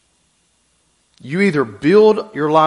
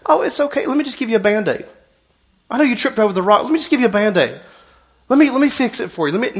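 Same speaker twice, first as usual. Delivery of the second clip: mock soothing; 3 semitones higher, faster than usual. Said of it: "and say".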